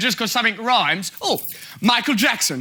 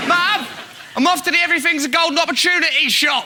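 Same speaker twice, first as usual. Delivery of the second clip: quick, higher call to Mum; mock calling to mum; 4 semitones higher, faster than usual. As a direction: rattle it off as if announcing you're popping out.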